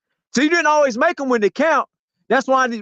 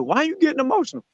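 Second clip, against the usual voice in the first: mocking quote; 4 semitones higher, 3 dB quieter, faster than usual. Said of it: "and then said".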